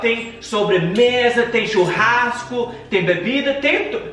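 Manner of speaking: high, fast excited king voice; a king bragging about his feast; roaring tyrant king. Acted. King voiced in children's story.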